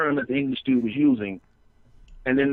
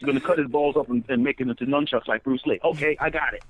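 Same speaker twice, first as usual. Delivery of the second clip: mock relieved understanding. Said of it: "then it was like".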